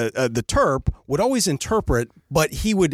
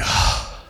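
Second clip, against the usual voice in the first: weary sigh. Retold or imitated. Acting out Alex's weary reaction.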